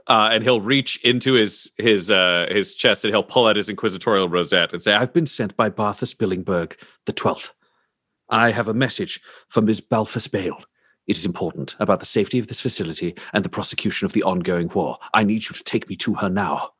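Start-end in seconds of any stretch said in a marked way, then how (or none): 4.9-16.7 formal, urgent officer delivery, lightly acted; commanding agent. Agent showing a badge to a guard, formal and insistent. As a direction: state the message firmly, then press the demand. Player voices agent demanding audience.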